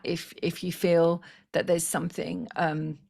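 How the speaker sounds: hoarse, strained voice; losing voice. Real, not acted. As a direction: voice going hoarse. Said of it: "I'm losing my voice".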